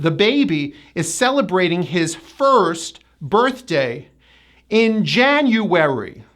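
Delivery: careful first, four-syllable January; measured model, first with full ER; tight ER. Shown as a demonstration. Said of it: "a tight er sound".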